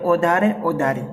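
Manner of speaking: "ओधारे" with a simple "o" at the start; children's misreading. Retold or imitated. Teacher imitates how children read it, wrong "ओधारे". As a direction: read "ओधारे" casually without pressing the first vowel. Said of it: "वो ऐसा ही पढ़ते हैं".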